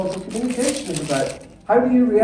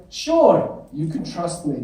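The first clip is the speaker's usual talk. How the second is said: put-on lovely British accent; 4 semitones lower, slower than usual. Traveller answering a stranger at the airport, lovely British accent. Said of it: "in my lovely British accent".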